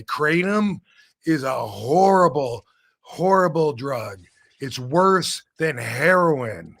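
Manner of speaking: slow, drawn-out mock pronouncement; imitating a weighty, deliberate verdict; grave retold warning. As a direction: stretch each condemning word, pausing between phrases. Retold solemn condemnation of a drug.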